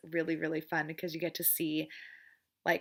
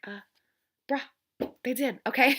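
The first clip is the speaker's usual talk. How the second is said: louder, higher bruh, fed-up; exasperated retort; 6 semitones higher, 5 dB louder than usual. Retold or imitated. Answering the father's claim about the cousins, exasperated. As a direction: shoot back in disbelief. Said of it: "And it's just like".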